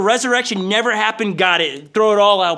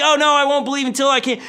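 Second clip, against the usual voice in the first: quick, higher-pitched protest; mock doubting refusal; 5 semitones higher, faster than usual. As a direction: rattle off a doubter's objection in light mockery. Mimics doubting Thomas refusing to believe.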